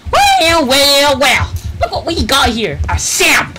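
high booming sunny showman voice; grand beaming sun, big and loud; Sun impression. Shown as a demonstration. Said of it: "I haven't done the Sun impression in a while".

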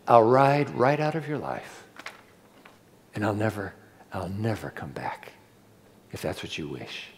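dropping to a near whisper; soft resigned plea. Retold or imitated. Convict writing home, fading to a whisper. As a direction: let it fade out, barely voiced. Convict's letter, pleading softly.

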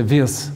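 "vias" with the southern Irish sound; Munster Irish "vias". Shown as a demonstration. A speaker from the south of Ireland gives the local word, "vias" said vee-uss. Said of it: "in where I come from, we'd say".

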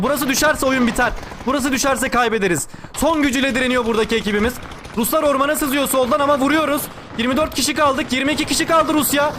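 intense esports match commentary; live play-by-play. Real, not acted. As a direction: call the battle as it unfolds. (heyecanlı canlı maç anlatımı)

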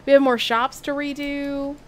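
put-on Southern accent. Streamer corrects the slip, resuming Southern accent. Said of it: "I lost the accent".

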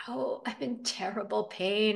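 slow, mildly pained complaint; acted touch of suffering; pained, sad moan. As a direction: draw it out as if hurting. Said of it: "Ember made another sad sound".

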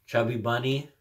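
one marshmallow in mouth; mouth full. Real, not acted. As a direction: say it around a marshmallow. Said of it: "put this in my mouth and say".

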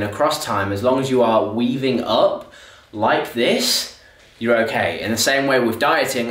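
winded mid-run; out of breath. Real, not acted. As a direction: still jogging, breathing hard. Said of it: "Sorry, I'm really out of breath".

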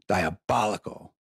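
slow, savoured Diabolical; drawn-out diabolical. Real, not acted. Stoned host marvelling at the reporter's trick, slow savouring. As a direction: stretch Diabolical out, relishing it.

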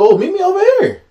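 high-pitched taunting call; mock challenge. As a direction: imitate a player calling out a rival. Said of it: "D K was like".

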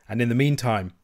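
"meantime" given a touch of emphasis; stress on meantime. A narrator's reading. Piper Allen answering his rival pointedly, mild stress on "meantime". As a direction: lean lightly on the word "meantime". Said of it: "laying a strong accent on the word".

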